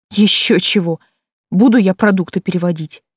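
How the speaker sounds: mock-indignant sarcastic retort; sarcastic hiss. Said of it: "Шиплю с сарказмом". (саркастичное шипение)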